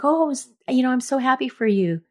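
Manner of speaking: lightly voiced delighted friend, pitched high; a hint of a friend gushing with joy. Friend Jan hearing about the engagement, mildly imitated delight.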